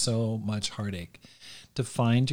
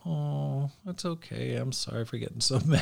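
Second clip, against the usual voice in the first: imitating softened wife; 2 semitones higher, 4 dB quieter than usual. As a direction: play the wife deflating into an apology. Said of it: "she's like".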